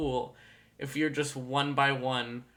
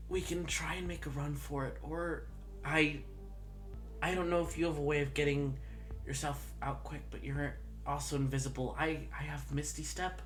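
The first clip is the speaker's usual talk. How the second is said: speaking in a quieter whisper; 6 dB quieter than usual. Voicing Locke, who urges a run for it: whispering. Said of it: "Locke whispers to you".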